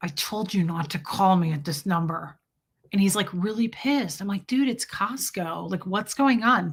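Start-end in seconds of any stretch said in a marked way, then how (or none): 0.0-2.4 put-on speech through clenched teeth, lower pitch. Retelling what a man at Costco said, imitating talking through clenched teeth. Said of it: "He's talking through his teeth".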